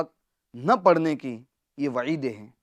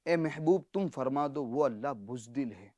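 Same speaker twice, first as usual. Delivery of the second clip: hushed appalled; 2 semitones lower, 7 dB quieter than usual. Shown as a demonstration. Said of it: "اس کا ترجمہ کیا بنے گا؟".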